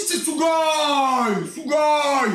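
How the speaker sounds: excited shout. Real, not acted. Shouting about studio.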